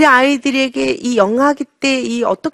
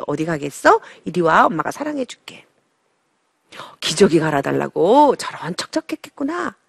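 tender mother. Acted. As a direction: coo to the crying infant gently. Mother soothing crying baby.

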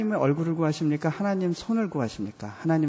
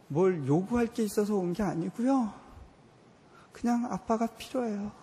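tearful plea; 6 semitones higher than usual. Retold or imitated. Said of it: "그리고 이렇게 울었어요".

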